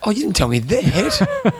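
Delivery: dismayed. Real, not acted. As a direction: let the letdown show.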